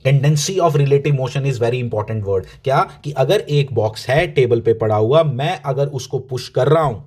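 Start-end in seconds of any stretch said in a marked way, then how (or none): 0.1-2.4 very slow, word by word; slow emphasis. Shown as a demonstration. Teacher slowly stresses the key term for students. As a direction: spell out Tendency of relative motion slowly so it sticks. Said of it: "please mind it".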